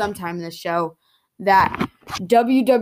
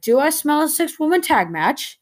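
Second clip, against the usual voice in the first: mock suspicion; 8 semitones higher than usual. Acted knowing question to his friend.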